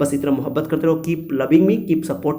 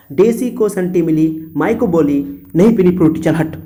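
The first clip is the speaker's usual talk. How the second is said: angry recital. Shown as a demonstration. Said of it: "बोलते हो गुस्सा करके".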